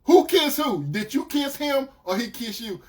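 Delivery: put-on interrogating boyfriend. Boyfriend grilling her about the kiss, agitated. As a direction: press her with rapid follow-up questions. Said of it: "I said".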